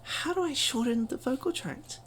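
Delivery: lightly acted questioning; wondering learner. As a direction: play the student asking the teacher. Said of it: "you're wondering".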